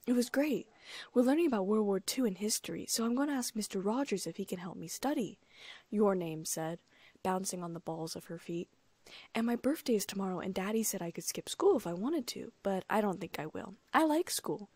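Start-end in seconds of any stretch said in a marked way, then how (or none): 0.1-5.4 put-on a bit higher, eager little girl telling her day; a slightly childlike, bouncy read; lightly voiced young girl. Little girl telling the gardener about school, eager and bright. 9.4-14.7 put-on a slightly childlike, bouncy read; lightly voiced young girl. Little girl telling the gardener about school, eager and bright.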